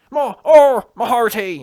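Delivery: loud, high hammed-up pirate cry; exaggerated pirate "arr, my hearty"; pirate impression. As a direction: belt out a mocking pirate roar. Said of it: "Pirate thing".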